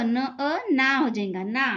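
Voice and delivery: न अ ना drawn out slowly; slow blending of sounds. Shown as a demonstration. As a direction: sound each letter slowly. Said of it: "न और अ". (धीरे-धीरे जोड़कर पढ़ना)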